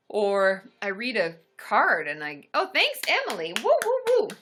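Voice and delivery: a silly fake blubbering at a kind card; mock tearful wail. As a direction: ham up crying over a sweet card. Acts out crying over a card.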